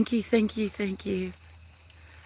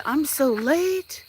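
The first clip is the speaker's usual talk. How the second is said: voicing the cat; 8 semitones higher, much slower than usual.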